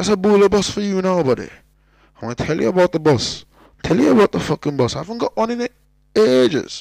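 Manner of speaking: thick, broad Cork accent, very loud and high. Welcoming someone new, in a full Cork accent. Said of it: "I'm like doing the Cork accent fully there now".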